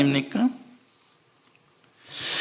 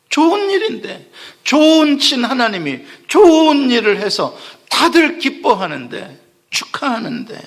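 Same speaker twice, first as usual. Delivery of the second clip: laughing; 4 semitones higher than usual. Real, not acted. Mocking Jonah's anger, laughing.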